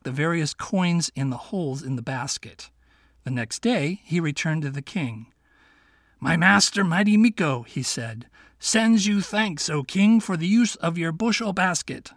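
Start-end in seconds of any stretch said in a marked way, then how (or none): 6.2-12.1 higher, light-voiced little fox; a sly young fox asking his friend. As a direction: play the clever little fox, kindly. Fox thanks the king.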